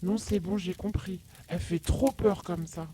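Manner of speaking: very soft, high scared brother; petite voix apeurée. Acted. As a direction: give in meekly, almost under the breath. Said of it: "apeuré ... une petite voix toute vacillante". (toute petite voix douce de frère apeuré)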